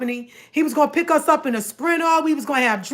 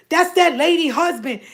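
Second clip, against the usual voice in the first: accusing tone. Retold or imitated. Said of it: "The way she said it".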